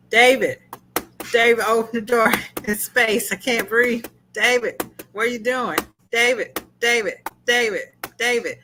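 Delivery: hammed-up desperate pleading at a locked door; mock panic. Retelling Cliff trapped outside spaceship.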